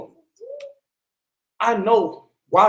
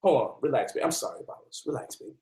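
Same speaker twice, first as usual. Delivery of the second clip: whispered relax; 4 semitones lower, 9 dB quieter, faster than usual. Retold or imitated. Soothing partner mid-demo.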